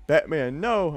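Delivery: mock-dramatic yell, pitch jumping up; dramatic shout. A narrator's reading. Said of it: "I shouted dramatically".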